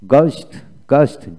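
গস্ট opening on a plain hard g; silent H. Shown as a demonstration. Teacher modelling the silent H for learners, গস্ট with plain g. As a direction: say গস্ট without any h sound. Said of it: "এইচ এর উচ্চারণ হয় নাই".

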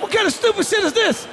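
disbelief. Acted. Repeats scolding higher.

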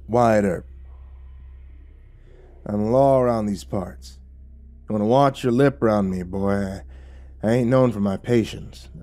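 a hint of Western sheriff; lightly voiced lawman, warning. Wyatt Earp questioning drunk stranger, mildly menacing lawman. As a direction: warn like an Old West lawman.

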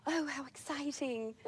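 put-on breathy gasp then slow childlike wonder; imitating children's gasp. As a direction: act out an awed child. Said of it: "all the children just go".

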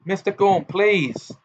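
appalled, pleading interjection; shocked. A narrator's reading. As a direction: object in mild shock. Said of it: "said Ogden in a shocked voice".

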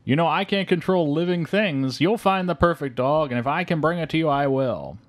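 a hint of a Santa hedging his promise; mall Santa. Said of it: "And he's like".

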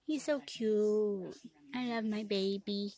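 slow breathy whisper; whispered cooing. Real, not acted. Cooing over the cat.

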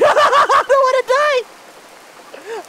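high, slow, laughing wail; real nervous laugh-crying; hysterical laughing plea. Real, not acted. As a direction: laugh and whimper at once. Hysterical fear in game.

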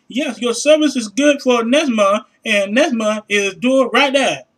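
slow, halting mock broken-English rep; imitating a call-center rep. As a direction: stumble through the script like a phone agent with shaky English. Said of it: "no English speaking motherfuckers".

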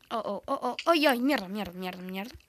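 panicked oh-ohs fading into muttered swearing; cursing under breath. Real, not acted. Danger in game, cursing.

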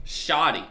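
"Shoddy" with an open AW and no R; slang pronunciation. Shown as a demonstration. Streamer correcting chat, "Shoddy" with no R as in short. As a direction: say "Shoddy" with the R dropped. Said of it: "Not a short".

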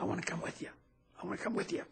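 lightly voiced kid asking to come along; boy pleading with the soldiers to take him. Kid begging to join soldiers.

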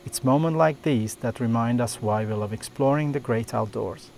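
calm documentary voiceover; nature documentary. A narrator's reading. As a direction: narrate the wildlife scene calmly. Narrated voiceover over music.

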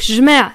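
jma' with no A at the start, said fast; quick jma'. Shown as a demonstration. Teacher showing jma' for range. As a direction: clip jma' short. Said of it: "on prononce très vite".

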